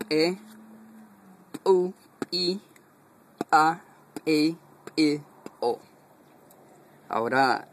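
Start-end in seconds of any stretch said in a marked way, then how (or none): 1.6-5.8 "pu, pi, pa" with a sharp popped ejective p; explosive P syllables. Shown as a demonstration. Teacher shows the ejective P row with explosive bursts. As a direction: pop each "p" out hard. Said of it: "E igual tiene una explosión".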